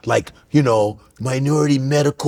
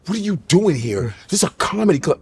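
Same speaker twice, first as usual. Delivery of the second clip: questioning sister; 2 semitones higher than usual. Retold or imitated. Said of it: "She's like this".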